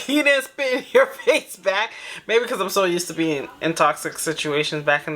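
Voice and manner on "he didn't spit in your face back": laughing disbelief. Retold or imitated. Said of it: "'cause I'm like".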